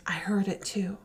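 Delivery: hushed unvoiced whisper. Mother hiding with her daughter whispers in fear. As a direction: breathe it so no one hears. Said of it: "her mom whispers".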